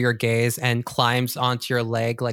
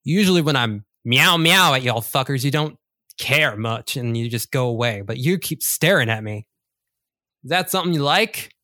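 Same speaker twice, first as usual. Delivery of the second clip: louder tough-guy cat, fast at end; lightly voiced cat picking a fight; rude street cat; 5 dB louder than usual. Black cat snapping at staring student, louder tough voice.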